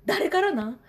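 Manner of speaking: put-on high, whiny child voice pressing for answers; pestering son. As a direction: mimic a six-year-old badgering his mom. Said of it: "みたいな、もう、もうすごくて".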